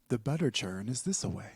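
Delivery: a hint of a Colonial Williamsburg accent. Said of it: "Colonial Williamsburg accent".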